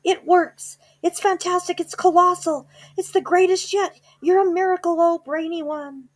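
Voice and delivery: very high, loud cheering witches; ecstatic cheering. Acted. Witches in the audience cheering the Grand High Witch, high and frenzied. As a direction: cheer wildly like a frenzied crowd.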